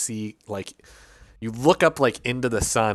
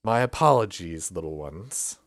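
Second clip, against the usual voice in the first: gentle apology; 2 semitones lower, 4 dB quieter than usual. Acted. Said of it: "She looks down and says".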